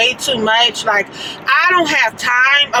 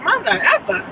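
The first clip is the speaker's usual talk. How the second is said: incredulous; 6 semitones higher than usual. Retold or imitated. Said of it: "looking at Sean sideways like".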